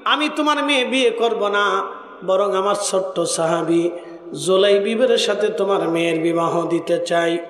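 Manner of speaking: sing-song preaching with long held line endings; melodic sermon storytelling. Acted. Preacher tells a congregation of the Prophet's proposal, melodic sermon storytelling.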